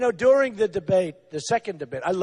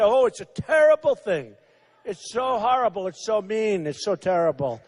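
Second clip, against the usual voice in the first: mock squeamish; 3 semitones lower than usual. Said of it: "They think I'm gonna say".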